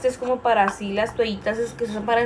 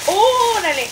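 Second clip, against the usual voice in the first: sudden high startled yelp; 10 semitones higher, 7 dB louder, slower than usual. Real, not acted. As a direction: jump at the hiccup. Startled by a hiccup.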